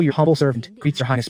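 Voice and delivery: a lightly hammed-up humble servant greeting; mock courtly bow. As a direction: play it as an overly polite court formula. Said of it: "doing the whole ... bit".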